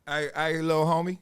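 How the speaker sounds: lightly voiced LA gangbanger greeting; a hint of LA street voice; L A gang voice. Stand-up comic imitating a gangbanger on the bus, light LA street voice. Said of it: "That L A voice".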